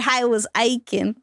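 put-on slow drawled Southern accent. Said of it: "never do that Southern accent again".

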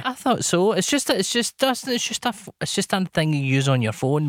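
mock Virginian accent. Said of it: "Do it with our Virginian accent".

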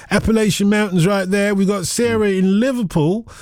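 put-on slipping into an American accent by accident. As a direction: still half in American accent. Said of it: "why am I doing this American accent?".

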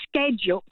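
"schedule" with a hard sk at the start; American-style schedule. Shown as a demonstration. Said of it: "kind of American thing".

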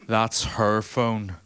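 very slow, drawn-out sorry from the big man; slow apology. Retold or imitated. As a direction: stretch each word like a gentle giant. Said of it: "he goes".

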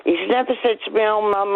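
usual speaking voice

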